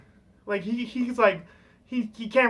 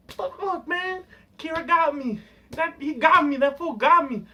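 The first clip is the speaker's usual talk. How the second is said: higher-pitched mock frustration; imitated pissed-off outburst; 4 semitones higher than usual. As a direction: act out cursing a rival who won. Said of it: "he gets fucking pissed".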